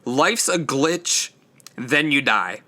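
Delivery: slowed right down, each word placed; slow, careful retake. Shown as a demonstration. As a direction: say the title again slowly and carefully. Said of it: "I'm stumbling over all of my words".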